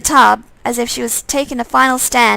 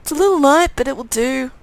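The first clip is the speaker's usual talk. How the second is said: irritated undead twin; 3 semitones higher than usual. Acted. Undead twin telling his brother he's pissed off, petulant. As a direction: explain the bond, then sulk.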